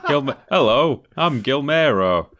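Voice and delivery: mock host voice. Mock host voice after name joke.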